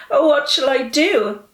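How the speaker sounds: high, loud despairing plea; distressed cry. A narrator's reading. Little Christian asking in despair about the lost roll. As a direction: wail it out helplessly. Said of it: "he cried".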